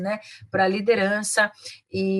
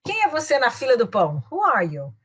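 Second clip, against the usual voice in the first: mock-haughty put-down, starting higher; looking down on someone; 4 semitones higher, 3 dB louder than usual. Shown as a demonstration. Teacher showing how intonation can offend, condescending. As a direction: dismiss them as a total nobody. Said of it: "aquele jeito, looking down at the person".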